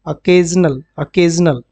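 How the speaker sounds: "अकेजनल" repeated with an initial schwa; correct pronunciation. Shown as a demonstration. Teacher drilling students on the reading, "अकेजनल" starting with "uh". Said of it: "क्या पढ़ेंगे".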